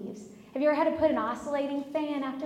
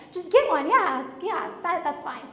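higher, louder brush-off; exasperated giving in; 4 semitones higher, 4 dB louder than usual. Retold or imitated. Wife gives in to nagging husband, exasperated. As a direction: wave off the nagging impatiently. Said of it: "You ever get that way?".

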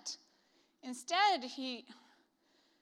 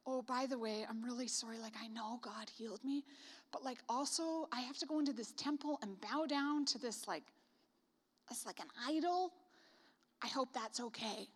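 softer, sheepish confession; awkward, quiet apology; 8 dB quieter than usual. Retold or imitated. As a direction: tell the prophet shyly, quietly apologetic. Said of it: "he says at the end to the prophet".

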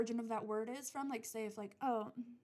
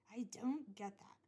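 slower whisper. Real, not acted.

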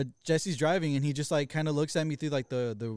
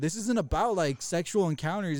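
heated accusation; 2 semitones higher, 4 dB louder than usual. Retold or imitated. Acted phone quarrel, heated accusation.

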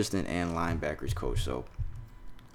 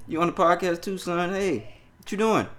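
imitating the caller; 9 semitones higher than usual. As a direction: drag it out like the caller on the phone. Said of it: "He said".

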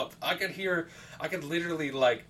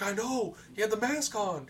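mock defensive protest; 7 semitones higher than usual. Friend defends himself in retelling.

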